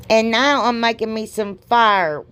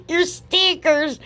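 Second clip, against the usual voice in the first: slow correction; 10 semitones higher, much slower than usual. Real, not acted. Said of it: "your liquors".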